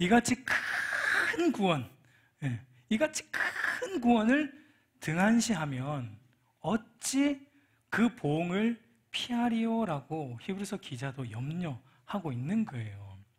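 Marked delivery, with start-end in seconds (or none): 0.0-1.9 큰 hit with emotional stress. Reading a Hebrews verse with empathy, stress 큰 with feeling. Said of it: "큰에다가 악센트를 줘야 돼요 ... 감정을 충분히 이입해서".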